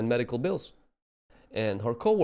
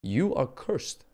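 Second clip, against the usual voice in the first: slow, solemn pronouncement in a changed voice; God's grave judgment, slowed down; slower than usual. Retold or imitated. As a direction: lay down the verdict slowly, like God. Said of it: "He said".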